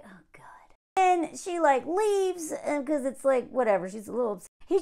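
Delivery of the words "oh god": exasperated aside. Retold or imitated. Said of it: "His wife's like".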